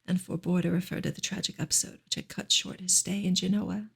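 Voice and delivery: hushed bedtime-style reading of a novel; story narration. Acted. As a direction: read the novel gently, as if to lull a listener. Reads novel aloud on stream.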